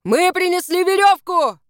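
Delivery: high, loud call down the cliff; shouting. Acted. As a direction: shout the good news down. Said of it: "крикнул мужчина".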